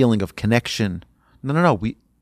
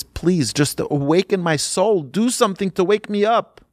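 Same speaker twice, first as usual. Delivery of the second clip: acted begging, pitched higher toward the end; pleading; 6 semitones higher than usual. Man begs the Rebbe to awaken his soul, pleading. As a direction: retell a man's urgent plea. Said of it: "the man starts pleading and pleading".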